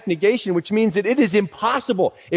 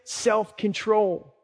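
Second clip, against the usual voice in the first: reluctant drawn-out word; 2 semitones higher, 4 dB quieter, much slower than usual. Shown as a demonstration. The one we like to skip.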